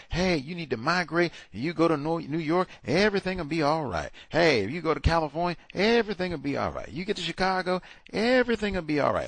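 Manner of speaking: high, sing-song sarcastic reassurance, a bit fast; mock reassuring promise. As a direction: parody a salesman promising it's all fine. Mock reassurance to migrating man.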